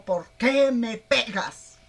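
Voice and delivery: loud, slow, aggrieved donkey voice; a beaten donkey protesting, drawn out and loud; complaining donkey. Acted. Balaam's donkey protesting to her master, loud and slow. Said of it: "cuando le dijo".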